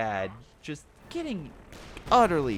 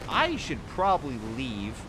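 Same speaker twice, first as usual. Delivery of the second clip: Hetzer voice. Acted. Voicing the Hetzer's thoughts.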